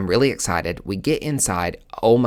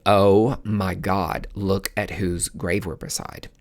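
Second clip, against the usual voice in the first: hushed awe; slower than usual. Retold or imitated. Friend realizes whose grave.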